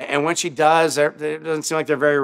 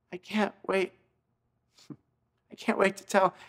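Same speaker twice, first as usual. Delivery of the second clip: choked-up quiet; 4 semitones higher, 6 dB quieter than usual. Retold or imitated. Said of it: "he actually starts crying".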